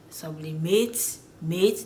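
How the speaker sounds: "sublimate" drawn out, weight on mate; French end stress. Shown as a demonstration. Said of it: "they're stressing on that end".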